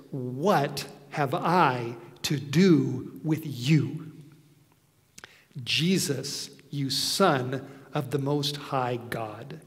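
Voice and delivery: slow, lightly voiced demon pleading; a hint of a demon begging to be left alone, drawn out. Preacher voices the demon pleading with Jesus, slow and lightly done. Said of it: "So now here's the voice coming out of him".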